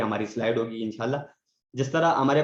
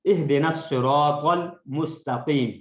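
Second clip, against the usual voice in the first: correct recitation; 3 dB louder, much slower than usual. Shown as a demonstration. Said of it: "اس کو اکثر غلطی سے ہم".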